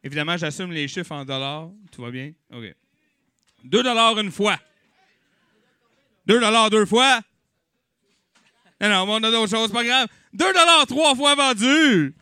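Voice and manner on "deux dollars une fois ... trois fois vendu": auctioneer calling bids. Acted. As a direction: build to sold, louder. Auction count.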